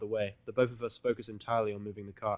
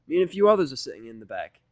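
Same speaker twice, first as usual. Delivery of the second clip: Rainbow's voice; 3 semitones higher, 10 dB louder than usual. Acted. Rainbow pointing at her table.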